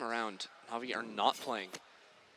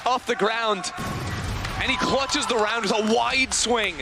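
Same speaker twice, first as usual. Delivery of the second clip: esports caster; 4 semitones higher than usual. Real, not acted. Hype caster play-by-play.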